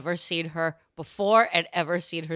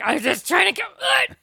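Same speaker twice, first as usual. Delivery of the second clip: mock shout; 12 semitones higher, 6 dB louder than usual. Mother voiced in the story.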